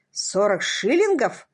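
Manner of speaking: slow, scoffing echo, шиллингов falling; scornful snort. Acted. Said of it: "фыркнул констебль".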